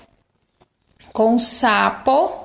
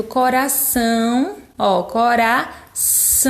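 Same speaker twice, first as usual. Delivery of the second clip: slow demo word. Shown as a demonstration. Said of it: "Olha o som do an".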